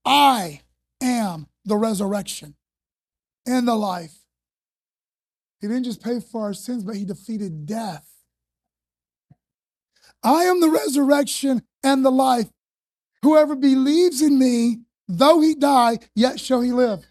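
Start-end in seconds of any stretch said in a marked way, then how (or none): 0.0-4.3 slow, solemn first reading; solemn Jesus. Shown as a demonstration. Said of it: "Jesus said to her". 10.2-17.1 proclaiming. Shown as a demonstration. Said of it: "Jesus said to her".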